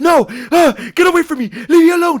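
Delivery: put-on, loud, high, drawn-out, freaked-out panicked outburst. Retelling what a man said as he looked behind them, imitating someone freaking out. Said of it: "he starts freaking out even more".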